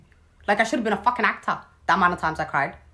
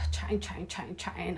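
mock chatter; 8 dB quieter than usual. Mocking mother-in-law's chatter.

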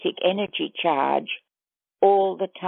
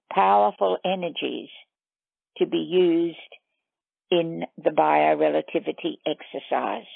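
measured meditation guide with long pauses; guided meditation. Acted. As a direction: lead listeners step by step, leaving long silences between phrases.

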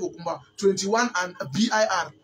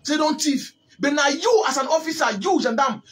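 indignant raised voice; 5 semitones higher than usual. Real, not acted. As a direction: push it up, outraged at the injustice. Heated rant about arrested child ex-fighters.

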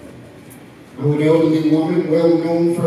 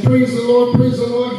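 repeated high praise cry; imitated elation; 5 semitones higher, 3 dB louder than usual. Old woman jumping up and down before her neighbor, imitated elation. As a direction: chant it high, mimicking her excitement. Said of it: "She jumping up and down".

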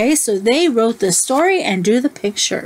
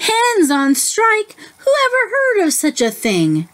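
exasperated disbelief; 10 semitones higher than usual. Acted. Farmer's disbelief voiced.

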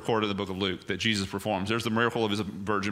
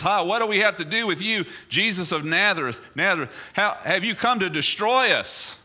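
demon crying out loud; 9 semitones higher, 4 dB louder than usual. A narrator's reading. Preacher voices the demon crying out before Jesus, loud and high. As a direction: cry out as the exposed demon, high and shrill. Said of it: "He cries out in a loud voice and says".

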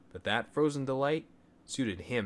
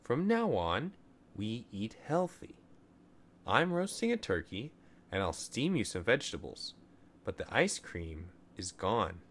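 sweetly. Acted. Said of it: "his mother said sweetly".

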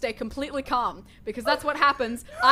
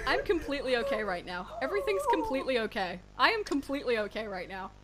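forced calm; 2 semitones lower than usual. Acted. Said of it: "I'm saying that I'm okay".

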